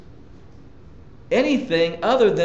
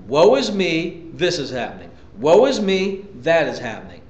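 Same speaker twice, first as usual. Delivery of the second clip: mock complaining. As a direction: imitate a woe-is-me grumbler. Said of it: "complaining and murmuring".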